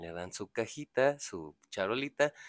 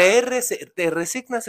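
much higher and louder cut-in; emphatic correction; 9 semitones higher, 9 dB louder than usual. Real, not acted. Correcting his friend's word, loud emphatic cut-in. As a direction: jump in loud to correct him.

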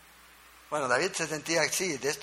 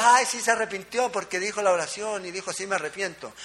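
mock cheap repentance; 3 semitones higher than usual. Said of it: "A veces nosotros".

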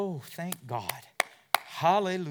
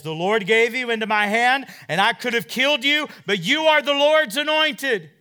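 loud, high preacher's shout as David; David shouting up to Saul from the hill; proclaiming shout; 7 semitones higher, 10 dB louder than usual. Acted. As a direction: cry it out to Saul.

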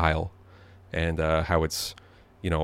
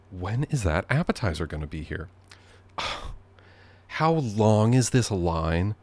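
impatient grumble. Retold or imitated. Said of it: "launch into a big complaint".

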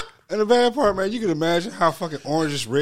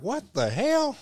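mock outrage, much higher and louder; outraged Proud Boy; 14 semitones higher, 4 dB louder than usual. Mocking Proud Boys' outrage at taking orders, hammed-up indignant. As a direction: ham up an indignant militia guy. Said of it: "Could you imagine the Proud Boys being like".

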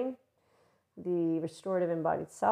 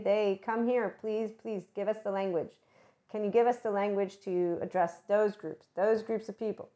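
lightly acted eager summons; calling the group to come over; 2 semitones higher than usual.

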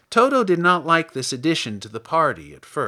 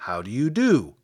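Scarecrow voice. A narrator's reading. Scarecrow greets Dorothy.

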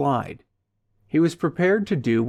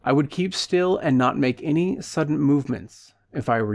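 calm warning; 3 semitones higher than usual. Acted. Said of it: "he warned his passenger calmly".

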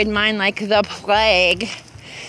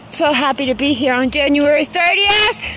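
out of breath from walking; breathless, gasping between phrases; 3 semitones higher than usual. Real, not acted. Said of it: "I'm out of breath 'cause I'm taking my walk".

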